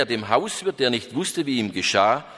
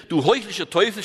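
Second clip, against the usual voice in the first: angry cry; 6 semitones higher than usual. Acted. Hermit cries out in anger at his companion. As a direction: hurl the accusation at him. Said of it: "schrie er".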